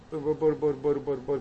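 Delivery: quiet, slow nonsense babble; soft babbling. Shown as a demonstration. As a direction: murmur «μπορ» like first stammering tongues. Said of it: "τι λες τώρα εκεί, ας πούμε".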